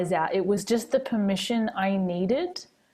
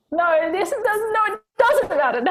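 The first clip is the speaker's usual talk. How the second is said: can barely get the words out for laughing; quoting grandmother while laughing; laughing through it; 12 semitones higher, 5 dB louder than usual. Retold or imitated.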